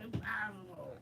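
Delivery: high, soft mock wail; Mark Hamill voice. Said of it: "The Mark Hamill voice".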